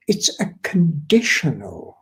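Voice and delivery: "conditional" set out deliberately; weight on "conditional", falling at the end; stress on CONDITIONAL. Shown as a demonstration. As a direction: lean on the word "conditional". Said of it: "I stress the word conditional".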